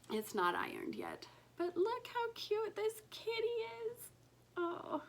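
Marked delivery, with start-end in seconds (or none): 1.6-5.0 high adoring whisper. Real, not acted. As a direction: whisper it in delight. Showing off the kitty stitch.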